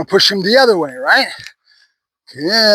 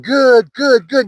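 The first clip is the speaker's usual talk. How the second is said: encouraging praise; 4 semitones higher, much slower than usual. Shown as a demonstration. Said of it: "I'm saying".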